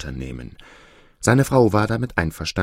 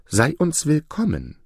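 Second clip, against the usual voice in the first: welcoming; 7 semitones higher than usual. Acted. Peacock couple taking in a frightened goose, welcoming. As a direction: greet a guest kindly, pitch lifted.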